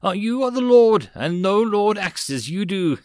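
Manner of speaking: high and loud, breaking into laughter; laughing. Acted. Laughing reply after huffing.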